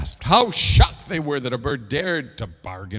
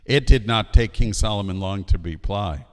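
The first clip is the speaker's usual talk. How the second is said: plain reading voice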